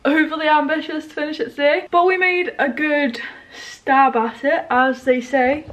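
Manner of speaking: talking through hiccups; hiccuping. Real, not acted. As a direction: hiccups breaking the words. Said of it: "I'm hiccuping".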